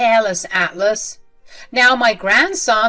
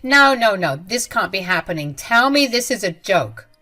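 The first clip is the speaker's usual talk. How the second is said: stunned disbelief; 6 dB louder than usual. Acted. Mother-in-law hearing of the baby, in loud disbelief. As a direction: refuse to believe it, voice jumping up. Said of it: "shake her head in disbelief and said".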